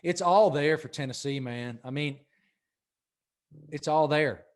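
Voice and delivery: muffled behind hands; talking through hands over face. Real, not acted. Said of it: "I just have my hands over my face".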